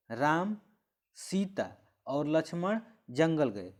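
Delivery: राम, a clear pause, then सीता और लक्ष्मण जंगल गए; pause after राम. Shown as a demonstration. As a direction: stop briefly after राम before सीता. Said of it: "मतलब रुकना है". (राम के बाद रुककर)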